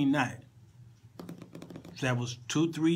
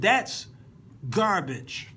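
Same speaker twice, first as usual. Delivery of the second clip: higher, punchy mock verdict; acted disdain; 3 semitones higher, much slower than usual. Latino guitar player judging the song, acted disdain. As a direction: imitate a blunt dismissal, pitched up. Acts guitarist rejecting the lyrics.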